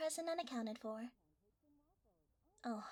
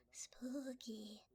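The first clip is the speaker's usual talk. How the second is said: spooky whisper. Acted.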